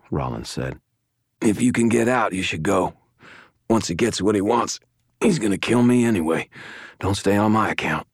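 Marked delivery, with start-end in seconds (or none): 1.4-8.1 strained, higher-pitched injured companion; wounded man. A narrator's reading. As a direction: urge a friend to leave despite the pain. Wounded man urges escape.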